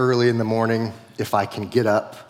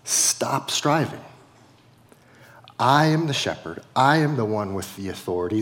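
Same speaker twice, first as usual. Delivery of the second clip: loving God. Retold or imitated. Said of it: "lovingly says".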